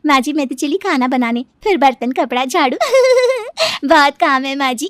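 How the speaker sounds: high giggle tacked onto each phrase; habitual giggling. Acted. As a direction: chatter on, breaking into laughter. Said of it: "बहू के हंसने की आदत". (बात-बात पर खिलखिलाती बहू)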